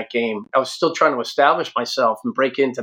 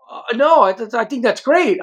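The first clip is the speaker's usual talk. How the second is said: put-on unimpressed girlfriend; 9 semitones higher than usual.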